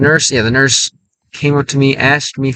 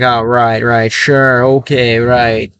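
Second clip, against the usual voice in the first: sarcastic; 2 semitones lower, much slower than usual. Retold or imitated. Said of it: "с тоном sarcasticetsky".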